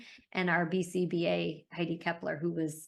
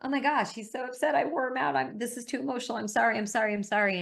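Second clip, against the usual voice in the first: higher, fretful rush of sorries; imitating a flustered specialist, pitched up; flustered apology; 4 semitones higher than usual. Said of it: "she goes".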